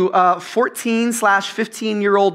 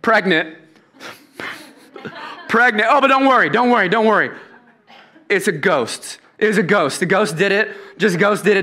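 breezy nonchalance; 2 semitones higher than usual. Retold or imitated. Mary breezily confesses pregnancy.

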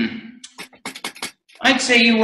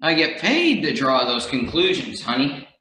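smug low detective; 5 semitones lower than usual. Acted.

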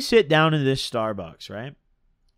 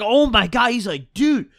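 panicked friend; 6 semitones higher than usual. Retold or imitated. Imitating a friend panicking at a cop, high and frantic. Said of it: "he loses his fucking mind".

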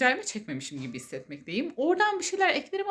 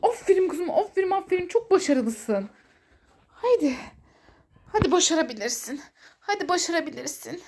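high, loud cheering praise; talking to a dog; 6 semitones higher, 4 dB louder than usual. Real, not acted. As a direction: cheer the puppy on. Praising and cheering her pet. (köpeği coşkuyla övme)

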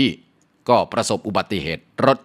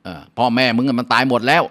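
higher, louder, blunt telling-off; blunt neighbor; 5 semitones higher, 4 dB louder than usual. Acted. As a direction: break the news harshly. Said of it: "เพื่อนบ้านก็ว่า". (เพื่อนบ้านบอกข่าวร้ายแบบห้วนๆ)

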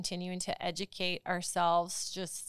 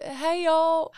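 put-on high, loud Southern little-kid greeting; Southern accent; 8 semitones higher, 9 dB louder than usual. Friend mimicking a little kid's greeting, high Southern accent. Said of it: "that has the Southern accent".

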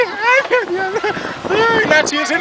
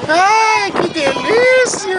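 blissful; much slower than usual. Real, not acted. Enjoying the ride slowly.

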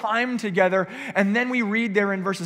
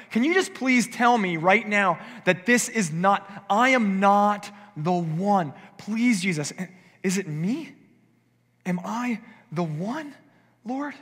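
slow, drawn-out pleading; begging plea; slower than usual. Acted. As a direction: disciples begging Jesus to rule them out. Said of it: "trying to save their own skin".

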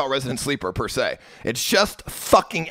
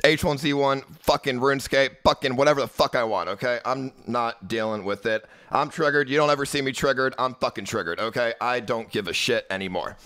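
real heated venting; triggered, airing a grievance; pissed off. Real, not acted. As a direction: rant at the chat, worked up and insistent. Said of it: "it's fucking pissing me off".

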